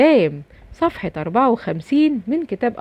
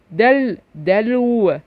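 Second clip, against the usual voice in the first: slow demo reading; much slower than usual. Shown as a demonstration. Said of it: "اللي عليها سكون".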